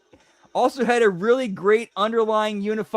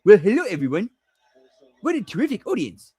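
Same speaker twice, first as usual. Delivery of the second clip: Jimmy impression; faster than usual. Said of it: "I can do a pretty damn good Jimmy".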